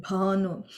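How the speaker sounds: "Bhanu" with a breath of H right after the B; B with H sound. Shown as a demonstration. Teacher explains the fourth B, "Bhanu" said with an aspirated B. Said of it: "the B with the H sound to it".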